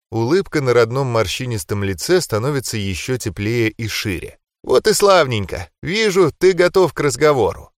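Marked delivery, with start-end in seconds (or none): 4.6-7.7 higher, sweet grandma voice. Acted. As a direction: voice a loving granny offering food.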